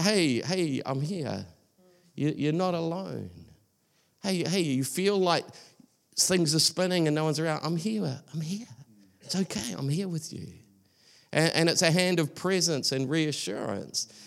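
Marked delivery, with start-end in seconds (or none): 0.0-10.5 softer, gentle comfort; lightly voiced God, quietly reassuring. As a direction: soothe someone who feels alone. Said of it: "sense of kind of reassuring presence".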